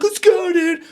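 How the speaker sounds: high, loud rallying yell; excited imitated urging; urgent shout. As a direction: holler it like a friend hurrying him along. Buddy urging him to run.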